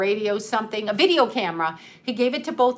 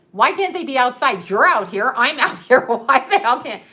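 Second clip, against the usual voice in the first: louder, combative mock challenge; reenacted outrage, punching out each retort; retold indignant arguing; 5 dB louder than usual. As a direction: argue back, raising your voice as you go. Retells her argument with neighbor.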